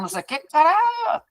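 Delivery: high, fast yelled curse; mock yell. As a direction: burst out at the trader in mock rage. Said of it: "Eu tô aqui gritando".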